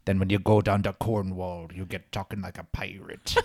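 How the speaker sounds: badly faked Cornish pirate accent; hammed-up Cornwall accent, like a pirate; terrible Cornwall accent. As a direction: do a bad West Country, Cornwall burr. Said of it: "that was a terrible Cornwall accent".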